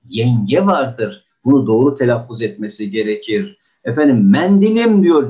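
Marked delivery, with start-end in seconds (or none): 4.3-5.0 "Mendilim" with an open E, higher and louder; mock open E. Teacher mimicking a wrong open E in class. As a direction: imitate a speaker's wrong "Mendilim". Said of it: "Yenge diye bir akraba yoktur".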